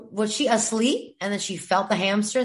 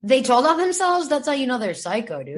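repeated with more punch; 2 semitones higher than usual. Shown as a demonstration. Friend asked to repeat it, more emphatic delivery. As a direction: say it again, with feeling. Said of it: "Say it one more time".

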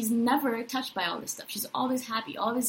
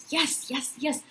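morning excitement. Retold or imitated. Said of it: "I'm like".

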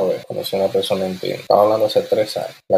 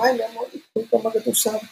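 apologizing woman; 12 semitones higher, 4 dB quieter than usual. Retold or imitated.

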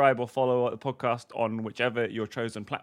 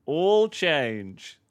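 mock train voice; 5 semitones higher, 3 dB louder, slower than usual. Acting the Jubilee line answer.

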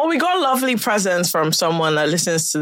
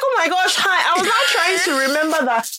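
laughing hard; 10 semitones higher than usual. Real, not acted. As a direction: burst out laughing while telling it. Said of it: "laughing retelling".

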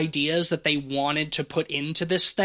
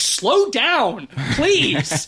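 mock scream; 6 semitones higher, 4 dB louder, much slower than usual. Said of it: "I just wanted to, like, scream".

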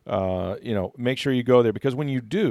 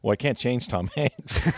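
Spielberg impression. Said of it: "and Spielberg goes".

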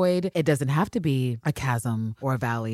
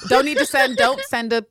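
higher and louder, mildly hammed-up insistence; mock impatient demand; 10 semitones higher, 6 dB louder than usual. Voicing Miss Walker demanding the info, mock insistent. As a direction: push it out, imitating someone impatient.

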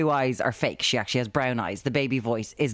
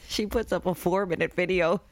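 higher, words breaking into laughter; laughing while talking; 4 semitones higher, 3 dB quieter than usual. Real, not acted. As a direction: crack up while telling it. Cracks up telling the story.

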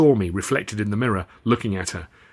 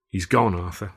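bleakly; 2 semitones lower than usual. Acted. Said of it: "Alf said bleakly".

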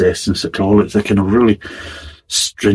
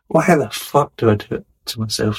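ordinary talk, nothing marked

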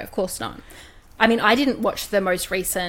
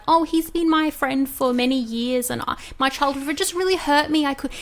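mock tearful apology; 5 semitones higher than usual. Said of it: "cried and was like".

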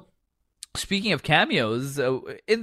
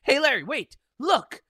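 mock Santino; 10 semitones higher than usual. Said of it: "he's just like".

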